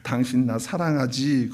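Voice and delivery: slow, coaxing, sweet-talking ask; cutesy aegyo plea. Shown as a demonstration. Preacher shows the wife asking her husband with aegyo. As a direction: coax him like a sulky lover, slowly. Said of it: "애교를 가지고".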